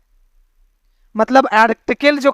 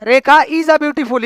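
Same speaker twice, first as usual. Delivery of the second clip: slow questioning quote; slower than usual. Retold or imitated. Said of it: "हाँ भैया".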